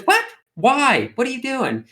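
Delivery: high surprised mother voice; surprised mom. Retold or imitated. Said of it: "she goes".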